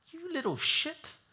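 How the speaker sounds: high, furious shout at the car; angry trucker. Retold or imitated. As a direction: spit it out at the reckless driver. Truck driver swears at reckless car.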